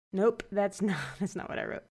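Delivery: giggling correction; laughing. Real, not acted. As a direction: laugh it off softly. Catching own misread.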